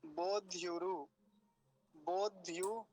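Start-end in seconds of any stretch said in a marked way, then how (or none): 0.0-1.1 बोध युरु said slowly with a break after बोध; split slow demo. Shown as a demonstration. Teacher breaks a hard word into parts for students. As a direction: pause between बोध and युरु. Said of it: "लेकिन देख लीजिए".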